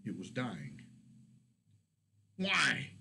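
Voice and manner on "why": a high, loud anguished scream; screamed why. A narrator's reading. Kurlak screaming at the dead elf, loud anguished scream. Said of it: "Kurlak screamed at it".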